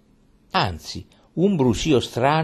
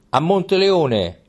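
slow, higher rallying call; rallying cry; 6 semitones higher, slower than usual. A narrator's reading. Troop takes up the king's march, slow rallying call. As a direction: call out the destination like a soldier. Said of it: "ripeté tutta la truppa".

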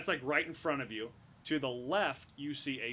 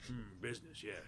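musing that jumps up high; pondering villain; 7 semitones higher than usual. Acted. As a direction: stroke the chin and ponder. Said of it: "He's like".

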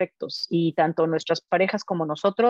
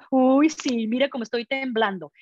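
sarcastic mock fear; 4 semitones higher than usual. Mosquitoes taunting the insecticide, sarcastic. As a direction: pretend to tremble, mocking. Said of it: "Esa clase de sarcasmo".

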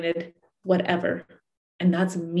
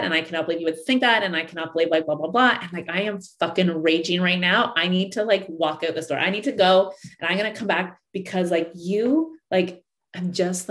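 mock furious rant. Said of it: "all of a sudden you're like".

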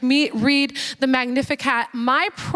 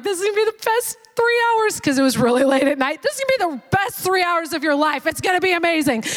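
giddy; 3 semitones higher, faster than usual. Retold or imitated. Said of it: "I was giddy with excitement for him".

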